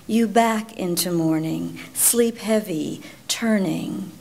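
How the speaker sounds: measured, incantatory poem recitation; poetry reading. Acted. Poet addressing the one who died while she slept, measured poetry reading. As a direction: let each short phrase stand, as in a recited elegy.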